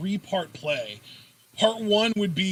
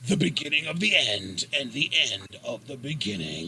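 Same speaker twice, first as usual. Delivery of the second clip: dramatic tagline; 7 semitones lower, 4 dB quieter than usual. Pretend. Mock tagline.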